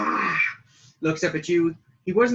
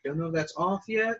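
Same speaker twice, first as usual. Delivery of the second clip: paladin voice; 4 dB quieter than usual. Acted. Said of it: "Nice voice".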